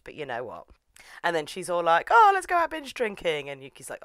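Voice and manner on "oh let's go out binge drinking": put-on high, loud party-girl gush; mock enthusiasm. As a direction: pitch it up like an eager girlfriend. Mimics girlfriend proposing drinks.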